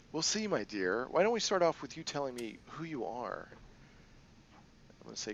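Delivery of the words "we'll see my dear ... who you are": a hint of a sly crime boss; lightly voiced, playful boss lady; Kindly Ching.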